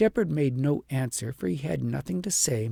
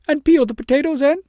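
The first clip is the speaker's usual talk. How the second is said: shepherdess; 13 semitones higher, 10 dB louder than usual. A narrator's reading. Shepherdess lists chores.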